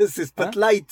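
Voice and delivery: Spotlight with a clear "-laït" ending; correcting pronunciation. Shown as a demonstration. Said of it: "Parce que tu dis Spotlight depuis".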